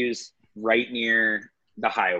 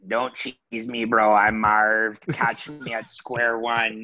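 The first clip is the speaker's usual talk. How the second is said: Toronto bro impression; slower than usual. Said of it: "Could I submit an impression?".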